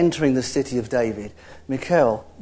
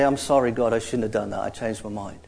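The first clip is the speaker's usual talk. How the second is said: quiet; 6 semitones lower, 6 dB quieter than usual. Pretend. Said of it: "repent and say".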